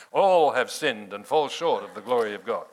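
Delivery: mock stern pronouncement with a heavy, loud All; frowning from on high. Pastor imitating those who taught him the verse, frowning from on high. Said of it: "said it with a frown from high".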